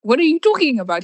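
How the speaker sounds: high, fast retold panic at the news; panicking. Girlfriend panicking over text, rushed high questions. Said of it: "so I was already panicking".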